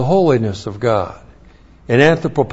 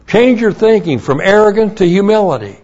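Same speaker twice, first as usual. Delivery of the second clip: fervent preaching; 6 semitones higher, 3 dB louder, faster than usual. Acted. Preaching climax.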